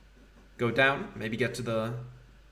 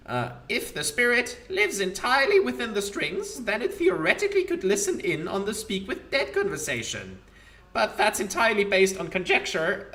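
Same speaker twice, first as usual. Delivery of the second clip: higher, gloating undead skull; Demilich voice; 5 semitones higher than usual. Acted. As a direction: savour the thought of ruin. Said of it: "Demilich voice".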